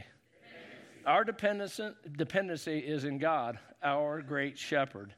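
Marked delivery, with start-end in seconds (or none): 0.0-1.1 whispered response. Real, not acted. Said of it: "Everybody say dependency".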